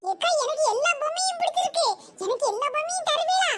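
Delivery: lightly voiced sweet small kid; cute little child. Small boy asks the shop owner for every doll, cute. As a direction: ask cutely, like a little child. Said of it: "நல்லா கியூட்டா பேசுற".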